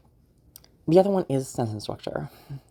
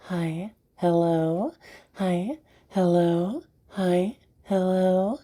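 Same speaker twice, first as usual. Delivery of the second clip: tuner warm-up climbing in pitch; 2 semitones higher, much slower than usual. Shown as a demonstration. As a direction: step the voice up with each repetition. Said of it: "to give an example".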